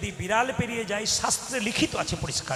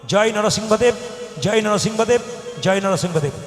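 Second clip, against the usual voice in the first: loud mantra call; 8 dB louder than usual. Shown as a demonstration. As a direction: call out জয় Narasimhadeva loudly. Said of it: "কি বললাম". (জোরে মন্ত্র বলা)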